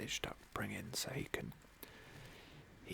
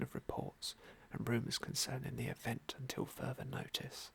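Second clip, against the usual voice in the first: whispered news reading. Acted. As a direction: read the headline like a hushed news report.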